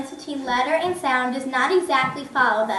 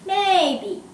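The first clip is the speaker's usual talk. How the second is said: dipping tone; 5 semitones higher than usual. Shown as a demonstration. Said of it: "An example in English would be".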